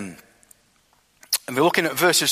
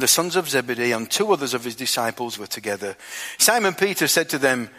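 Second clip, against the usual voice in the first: measured, storytelling Bible reading; scripture reading. Acted. Preacher reading the Bible passage aloud to his congregation, steady and measured. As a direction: read the passage aloud to the church.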